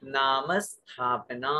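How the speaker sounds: slow, नाम held long, स्थापना said clearly; slow model recitation. Shown as a demonstration. Teacher asking students to say it aloud, slow and clear. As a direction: recite it for the class to copy. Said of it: "बोलिए, उच्चारण कीजिए".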